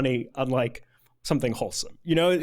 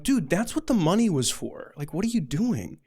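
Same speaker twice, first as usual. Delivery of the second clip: higher, exasperated retold protest; exasperated confrontation; 5 semitones higher than usual. Counselor confronting the worker he bribed, exasperated. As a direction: act out calling someone out in disbelief.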